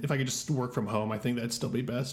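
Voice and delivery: tired put-on sick voice; faking being sick. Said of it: "is that your sick voice?".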